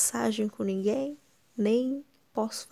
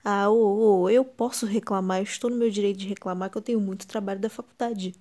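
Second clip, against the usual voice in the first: indignant; 5 dB louder than usual. Acted. Loud retort to critics.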